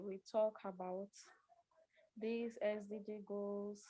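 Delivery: speaking very softly, fading out; barely audible. Real, not acted. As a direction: voice dropping too low to hear. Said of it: "your voice is very low".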